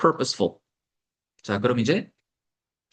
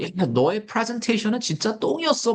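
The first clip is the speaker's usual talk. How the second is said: rude bad example; 6 semitones higher than usual. Shown as a demonstration. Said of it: "이렇게 얘기하면 안 되는 거죠".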